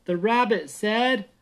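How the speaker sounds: lively read-aloud storybook voice; reading a bedtime story to the kids. Acted. Parent reading to kids, lively storybook voice.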